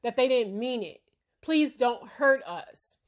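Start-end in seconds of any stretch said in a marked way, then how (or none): 1.4-3.0 mock plea. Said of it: "They're crying".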